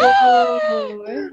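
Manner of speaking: a sudden high, loud "Oh!" of shock; shocked gasp. Real, not acted. Friend cutting in, shocked by what she just heard. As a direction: jolt out a stunned exclamation.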